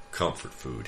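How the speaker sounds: intoned. Acted. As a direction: intone it like a grace over the meatloaf. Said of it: "he fairly intoned".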